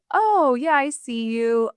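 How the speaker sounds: playful, high-pitched "oh" easing down. Acted. Greeting the voice of doubt she programmed, playful. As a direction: tease it lightly, starting high. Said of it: "Oh, it's playful".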